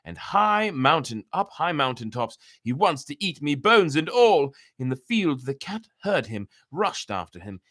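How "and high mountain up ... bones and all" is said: high, loud shrill cries for help; shrill cry. Acted. The cock cries out as the fox carries him, shrill cry. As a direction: scream it high, as if being carried off. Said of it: "The cock cried in a shrill voice".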